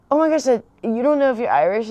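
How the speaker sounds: high, loud imitation of astonishment; retold disbelief. Man hearing she doesn't know her heritage, mock astonishment. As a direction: quote an incredulous question, pitched well up.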